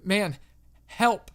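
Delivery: unconvincing distress. A narrator's reading. Young prank-sounding caller asks the operator for help, unconvincing distress. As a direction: call for help like a badly faked panic. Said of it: "His voice didn't sound convincing at all".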